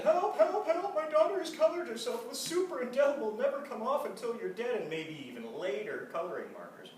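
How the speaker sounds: loud, high cries for help; panicked calls. A narrator's reading. Mother frantically calling the doctor for help.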